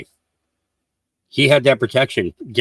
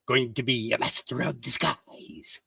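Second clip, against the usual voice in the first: whisper; 3 semitones lower, 11 dB quieter than usual. Acted. Whispered aside about disguise.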